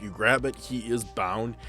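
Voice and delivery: ordinary talk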